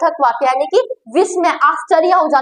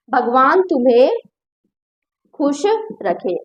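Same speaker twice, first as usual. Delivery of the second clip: gentle blessing; 3 semitones lower, slower than usual. Shown as a demonstration. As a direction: bless them tenderly. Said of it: "मैं कह रही हूँ".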